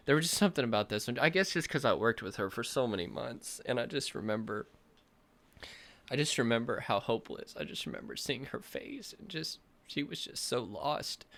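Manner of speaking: fighting back tears; welling up. Real, not acted. Coach to viewers, tearing up remembering the client. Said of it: "I wasn't planning on crying".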